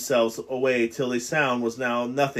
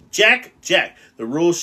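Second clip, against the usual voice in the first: loud, high call of the name; shouted; 4 semitones higher, 8 dB louder than usual. Acted. Ralph shouts at Jack to keep the rules. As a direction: shout him back to order. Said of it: "shouted Ralph".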